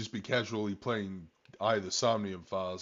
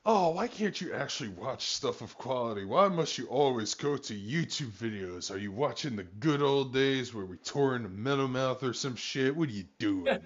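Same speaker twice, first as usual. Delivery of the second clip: higher, swooping mock complaint; mock exasperated scolding; 4 semitones higher than usual. Host chides co-host for watching YouTube, mock exasperated. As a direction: plead in playful despair.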